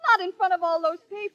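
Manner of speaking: high, quick objection; indignant protest. Acted. Pupil objects to a kiss before the audience, indignant.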